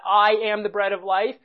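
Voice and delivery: "I" set off with light stress; mildly emphatic "I". Shown as a demonstration. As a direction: lean lightly on "I". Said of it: "talk about italicizing that".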